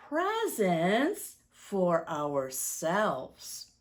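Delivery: storybook rhyme read with slow, lingering phrases; reading to children. Acted. Reads Santa's Prayer to the children, storybook voice. Reads picture book aloud.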